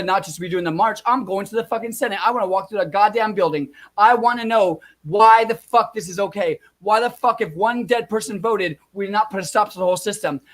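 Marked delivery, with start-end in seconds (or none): 4.0-7.4 louder and higher, furious demand; angry outburst. Real, not acted. Ranting vlogger demands answers from election workers, furious. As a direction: spit out the question in real fury.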